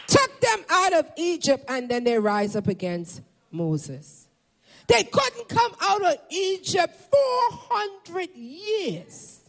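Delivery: high, emphatic preacher's cry; impassioned sermon delivery; fiery preaching. Acted. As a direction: preach it out, stretching the final phrase. Preaches at full force.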